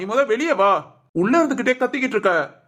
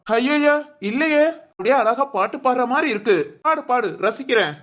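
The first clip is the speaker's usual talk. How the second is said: sarcastic mock praise. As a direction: tease with pretend appreciation. Mocking friend's complaint about shouting.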